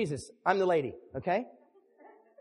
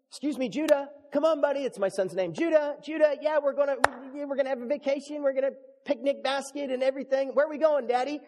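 acted family chat; 4 semitones higher than usual. Acts out family vacation chat.

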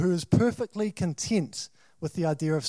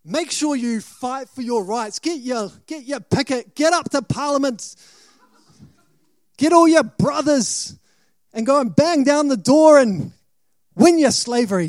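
building from a light mock rally call to a louder, higher protest shout; hammed-up protest leader getting louder; mock rally cry; 4 semitones higher, 4 dB louder than usual. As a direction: rouse the slaves to storm Parliament, tongue in cheek. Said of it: "He doesn't say".

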